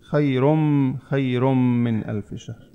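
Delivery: slow "khayrum-min" for خير من; no n, merged meem. Shown as a demonstration. Teacher showing the n is absent, long m in خير من. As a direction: hold the m from خير into من, with no n. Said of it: "النون مش موجود".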